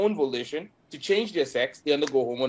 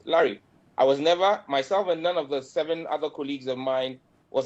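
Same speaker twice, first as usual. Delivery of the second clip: Ghanaian accent. Real, not acted. Ghanaian MP defends his bill.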